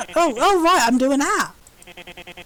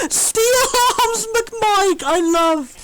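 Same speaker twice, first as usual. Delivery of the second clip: swooning fangirl; 4 semitones higher, much slower than usual. Real, not acted.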